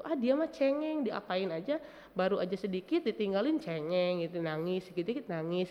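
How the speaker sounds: lightly mock a parent calling the child a crybaby; dismissive parent. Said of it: "tidak ikut juga kita melabel anak".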